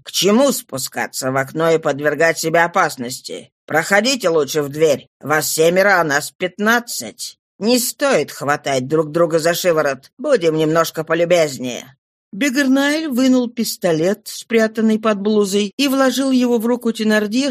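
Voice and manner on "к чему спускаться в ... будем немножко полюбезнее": lightly voiced police inspector, lower pitch; a low, composed lawman's voice, lightly played; composed Javert.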